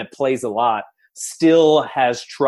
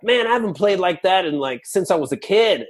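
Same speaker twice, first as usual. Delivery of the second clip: lightly imitating wowed friends, higher pitch; amazed friends; 6 semitones higher than usual. Friends reacting after a play day for adults, mildly amazed.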